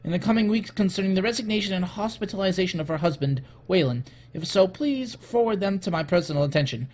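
theatrical reading of a letter; dramatic voice. Pretend. Executive writing to Miss Grant, dramatic voice. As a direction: read it out with measured drama. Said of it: "read this file in my dramatic voice".

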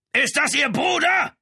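loud, high shout after someone; bellowed question. A narrator's reading. Lieutenant calls after the charging man, bellowing. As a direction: roar the question at his back. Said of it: "brüllte Brown ihm hinterher".

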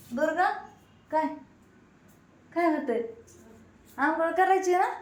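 high, loud call across the house. Real, not acted. Mother calls Durga to her bath, loud and high. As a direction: call the little one over to bathe.

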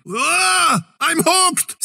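sudden high yelp of surprise; high alarmed yelp at being hooked; startled cry. Acted. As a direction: caught off guard, cry out high. Grabbed by an enemy hook.

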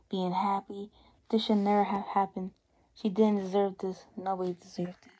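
soft, subdued mourning words; quiet eulogy. Acted. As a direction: speak softly over her grave. Eulogy at the funeral.

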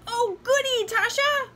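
high, loud, delighted chirp; chirping doll. A narrator's reading. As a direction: chirp with glee as a little doll. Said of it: "the doll chirped".

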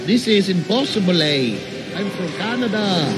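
made-up Canadian accent, hammed-up; mock Canadian accent. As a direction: put on a joking Canadian accent. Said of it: "That's Canadian".

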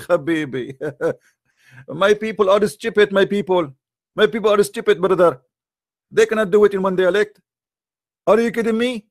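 high, laughing mock plea with a put-on voice; mocking whiny prophet. Critic mocking Muhammad begging Allah, high mock whine. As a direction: lampoon a whining prophet begging off, pitched high.

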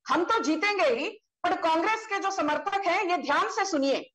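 recited Hindi couplets, each line repeated; poetic recitation. Shown as a demonstration. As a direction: declaim the verse with flourish. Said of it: "you've thrown a poetic punch".

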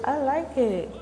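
high, bright delighted line; beaming with joy. Real, not acted. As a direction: gush about how much you love it. Delighted by her own makeup.

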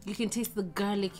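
talking with mouth full; eating between words; chewing while talking. Real, not acted. Seen 0: Bites sausage at -3, chews with hand at lips until 4.9.

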